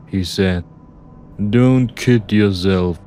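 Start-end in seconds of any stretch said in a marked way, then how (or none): 1.4-3.0 lightly voiced menacing driver; taunting tough driver. Driver doubts the narrator will shoot, taunting.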